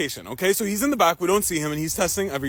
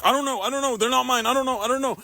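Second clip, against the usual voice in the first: higher-pitched, repetitive panicked denial; mock panic; 4 semitones higher than usual. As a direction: babble denials in imitated panic. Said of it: "panicking and just being like".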